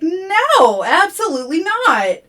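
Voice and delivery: very high, loud panicked pleading; frantic refusal. Retold or imitated. Sky refusing the forest's bargain, loud frantic pleading. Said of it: "Sky is like".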